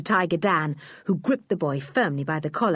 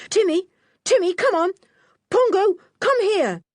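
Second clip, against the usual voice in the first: much higher, loud urgent call; 13 semitones higher, 5 dB louder than usual. Acted. Julian calling Timmy and Pongo in the dark, loud. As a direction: call the animals across the cave.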